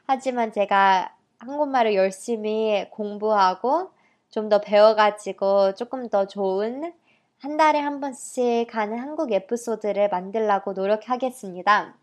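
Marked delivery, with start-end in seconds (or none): 0.0-5.8 Korean with an American accent; halting heritage-speaker Korean. Real, not acted. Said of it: "제가 솔직히 한국말이 되게 서툴고". (미국 교포 억양의 한국어)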